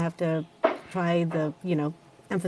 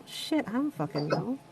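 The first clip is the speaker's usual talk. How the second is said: muttered panic; 2 semitones higher, 9 dB quieter than usual. Retold or imitated. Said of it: "And I was like".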